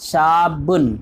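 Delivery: شابن with a held, doubled b; شابن, long aa then geminated b. Shown as a demonstration. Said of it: "با پر تشدید ہے".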